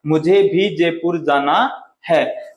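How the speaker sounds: slow, weight on "मुझे भी"; stress on भी. Shown as a demonstration. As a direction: lean on भी in "मुझे भी जयपुर जाना है". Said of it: "बात को बल दे के कहते हैं".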